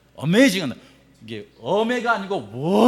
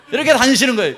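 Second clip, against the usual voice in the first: laughing; 6 semitones higher, 8 dB louder, faster than usual. Real, not acted. Preacher laughs at tourists.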